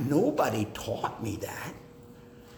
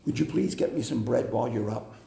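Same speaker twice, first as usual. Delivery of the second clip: polite request; 3 semitones lower, much faster than usual. Shown as a demonstration. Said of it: "respectful talk to your spouse".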